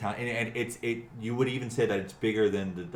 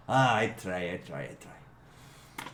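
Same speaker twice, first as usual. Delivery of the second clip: trailing off to a whispered, slower I try; modest companion; 5 dB louder, slower than usual. Acted. Morgram modestly answers the innkeeper, fading to a whisper. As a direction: brush off the praise, fading away.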